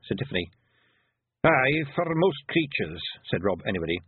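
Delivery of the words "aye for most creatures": slow, higher Scottish voice; Feegle leader. Acted. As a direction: play a wee Scots know-all.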